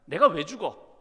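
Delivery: acted protest of disbelief; in denial. Patient refusing to accept dying, in denial. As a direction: push back, refusing the bad news. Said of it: "부정하는 겁니다".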